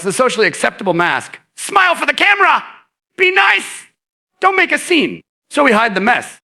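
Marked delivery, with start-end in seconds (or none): 1.5-5.2 high, sing-song grown-up commands; much higher, bright mock parent voice; chirpy parental orders. Childhood adults telling you to behave.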